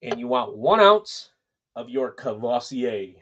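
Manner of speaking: slow, smooth ladies' man delivery. Retold or imitated. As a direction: purr it like a nineties ladies' man. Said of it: "I say it exactly like the ladies' man did back in the nineties".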